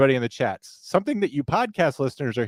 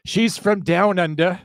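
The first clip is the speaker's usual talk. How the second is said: slow, higher-pitched mock Aussie drawl; Australian accent; 5 semitones higher, slower than usual. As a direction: put on a hammy Australian accent. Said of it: "just hearing that accent just now".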